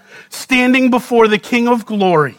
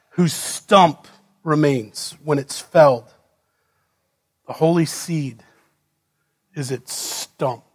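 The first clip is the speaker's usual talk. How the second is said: solemn low; 5 semitones lower, 5 dB quieter than usual. Acted. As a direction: let the last words fall away. Solemn closing verse.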